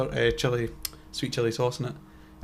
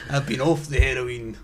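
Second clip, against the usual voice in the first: slow character voice. Retold or imitated. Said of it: "Jacqueline McCaffrey".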